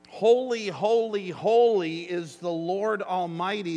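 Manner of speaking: loud ringing cry of holy; seraphs crying out. Retold or imitated. Preacher voicing the seraphs, crying out loud. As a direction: call it out like the seraphs. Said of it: "they cried out".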